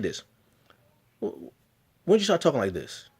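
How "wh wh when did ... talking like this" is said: higher, faster mocking teacher question; imitating teacher. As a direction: lightly mimic a scoffing teacher. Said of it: "She actually said this".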